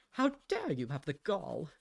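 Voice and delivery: hammed-up indignant question; mock outrage. Explaining an expression for being mad, mock outrage. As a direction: act affronted, putting on mild outrage. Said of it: "you're really mad at someone".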